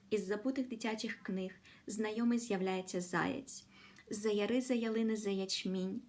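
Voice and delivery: measured, musical reading in Ukrainian; poem recitation. Acted. Teacher reading the Ukrainian poem to the class, melodic. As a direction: let the sounds and rhythm carry the poem.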